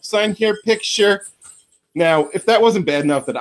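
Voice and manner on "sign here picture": dazed fan. Retold or imitated. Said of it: "I was just like".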